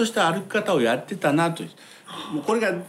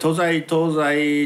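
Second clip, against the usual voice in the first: kabuki declamation; much slower than usual. Shown as a demonstration. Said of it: "って言って".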